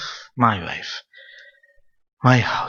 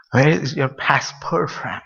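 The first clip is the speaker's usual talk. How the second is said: slowed right down, word by word; slow motion; slower than usual. Shown as a demonstration. Asked to repeat the passport question, in slow motion. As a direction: draw out "Where is your passport from" very slowly. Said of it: "Say in slow motion".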